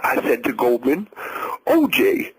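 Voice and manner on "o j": high yelled "O J"; hollered. A narrator's reading. The ex-wife hollering at him to stop. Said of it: "Nicole hollered".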